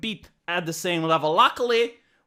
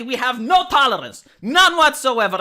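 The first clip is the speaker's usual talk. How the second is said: mock zealot fervor; 5 semitones higher, 5 dB louder than usual.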